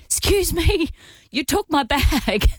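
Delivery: high, drawn-out mock accusation; accusatory. Man who ran after her about his bag, mock accusatory. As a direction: imitate an aggrieved stranger calling someone out. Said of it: "he was almost a bit accusatory".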